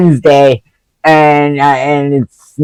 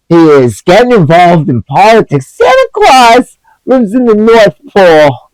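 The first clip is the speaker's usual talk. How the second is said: worked-up, higher-pitched rant; getting heated; 5 semitones higher than usual. Real, not acted. Vlogger ranting about a fake Santa on Twitter, heated. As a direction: protest indignantly, pitch climbing. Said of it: "I'm getting heated".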